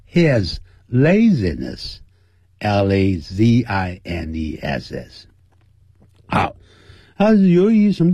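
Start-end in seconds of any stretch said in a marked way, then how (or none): 2.6-5.3 "L A Z I N E S S" letter by letter, slow; spelling aloud. Shown as a demonstration. Teacher spelling "laziness" slowly for students. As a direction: spell the word out for the class. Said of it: "spelling out laziness".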